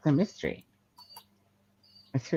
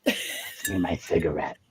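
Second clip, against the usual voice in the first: put-on sweet old lady; 10 semitones lower than usual. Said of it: "old lady voice is kicking in".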